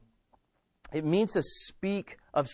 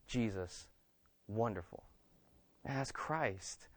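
quiet wonder; hushed awe; 8 semitones lower, 13 dB quieter than usual. Real, not acted. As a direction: draw them in with a near whisper. Preacher sinks to hushed awe.

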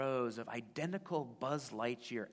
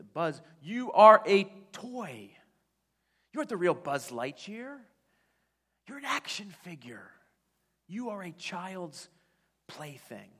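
exasperated shout; 7 semitones higher, 13 dB louder than usual. Retold or imitated. Woody yelling at Buzz that he's only a toy, exasperated. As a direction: insist he's just a toy. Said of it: "Woody says".

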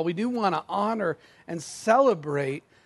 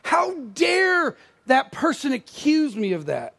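indignant; 5 semitones higher, slower than usual. Pretend. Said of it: "Are you indignant?".

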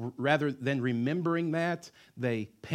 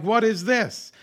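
perplexed crowd; 11 semitones higher, 11 dB louder, slower than usual. Retold or imitated. Perplexed Israelites at Red Sea.

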